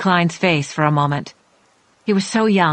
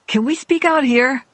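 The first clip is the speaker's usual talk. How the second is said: gentle, higher-pitched polite request; kindly asking; 7 semitones higher than usual. A narrator's reading. Young attorney asks wary woman to step outside, kindly asking. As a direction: ask kindly, coaxing them along. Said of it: "he kindly asked".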